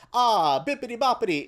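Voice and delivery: tossing off a silly cartoon Russian accent; mock Boris and Natasha Russian accent. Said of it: "It goes from Boris and Natasha".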